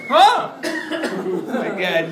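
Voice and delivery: startled yelp then laughing; jumped, then laugh it off; jump scare laugh. Real, not acted. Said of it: "you scared me".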